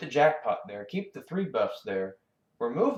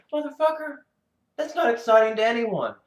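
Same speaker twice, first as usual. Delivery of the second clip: much higher, exasperated rant; exasperated yell; 11 semitones higher, 4 dB louder than usual. Real, not acted. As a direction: fling it at the designers, fed up. Raging at the designers.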